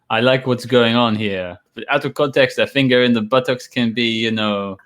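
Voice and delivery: lightly put-on French accent. Retelling an odd movie scene to co-hosts, light French accent. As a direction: quote it with a touch of French accent. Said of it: "I put the French accent on this".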